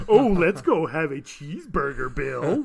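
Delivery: put-on slow caricature American accent; mock American accent. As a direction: drag out the American vowels. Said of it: "I'm an American".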